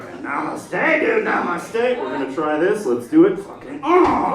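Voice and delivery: comic aggressive pep talk ending in a groan; pissed-off yogi. Acted. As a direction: force out yoga calm through irritation. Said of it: "I'm just a pissed off dude".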